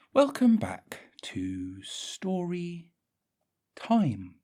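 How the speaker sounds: high slow whisper. Acted. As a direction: breathe the intro slowly. Whispered storyteller.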